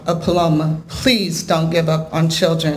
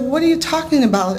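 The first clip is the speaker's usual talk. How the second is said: higher-pitched puzzled question; retold bafflement; 6 semitones higher, faster than usual. Husband still confused by his crying wife, retold bafflement. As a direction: imitate a confused husband pressing for an answer.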